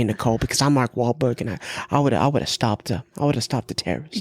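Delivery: put-on light Boston accent, boastful; a hint of Boston swagger. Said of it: "That Boston accent does come out".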